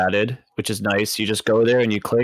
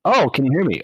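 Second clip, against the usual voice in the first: higher-pitched mock surprise at being heard; feigned bad connection; 4 semitones higher than usual. Troll answering players at game's end, feigning surprise. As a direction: pretend the mic just started working. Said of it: "I go".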